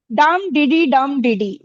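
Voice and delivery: dactyl beat, डम stressed and डिडी unstressed; stress on DUM. Shown as a demonstration. Teacher repeats the rhythm for pupils, stress on डम. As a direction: land on each डम, keep डिडी light. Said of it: "डम में stress है".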